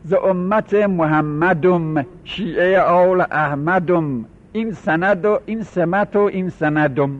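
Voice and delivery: put-on chanted rhyme in a Mashhadi accent, each line ending -dum; لهجهٔ مشهدی. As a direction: recite slowly in mock Mashhadi, leaning on the -um endings. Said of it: "خب این لهجه است".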